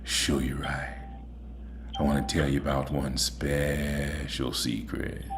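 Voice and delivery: low, soft crooning singer try with a tired voice. Retold or imitated. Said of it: "let's see if I can sound like a singer".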